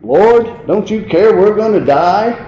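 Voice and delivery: high, loud desperate plea; frightened disciples begging Jesus for help; panicked cry. Acted. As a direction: cry out to the Lord in terror. Disciples crying out in storm.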